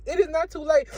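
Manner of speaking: a touch of pulpit fervour; rising preach. Real, not acted. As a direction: preach it harder to the crowd. Preaching to viewers.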